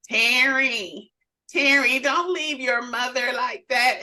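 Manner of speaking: embarrass them by calling out like mom; mom's calling voice. Retold or imitated. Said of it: "hear her with this voice".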